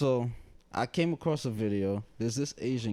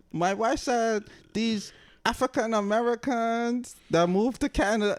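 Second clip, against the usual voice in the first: mock Asian accent; 10 semitones higher, 3 dB louder than usual. Host voices the caller reporting teens, in a mock accent. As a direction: put on the accent and drag it out. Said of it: "Doing the accent".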